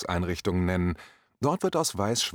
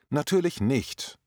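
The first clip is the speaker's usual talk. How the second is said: curt reply; 4 semitones higher than usual. Retold or imitated. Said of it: "war die schroffe Antwort".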